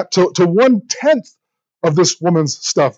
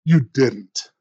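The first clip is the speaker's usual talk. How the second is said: shocked gasp; much slower than usual. Retold or imitated. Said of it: "They'd be like".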